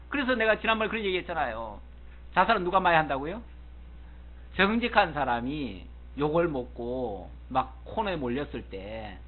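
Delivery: ordinary talk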